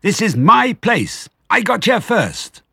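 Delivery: high, loud, drawn-out screech; squealing territorial protest; shrieking rat. A narrator's reading. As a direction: stretch each word into an indignant shriek. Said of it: "shrieked Rat".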